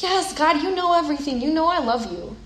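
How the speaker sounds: mildly frustrated. Retold or imitated. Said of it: "Peter gets a little frustrated".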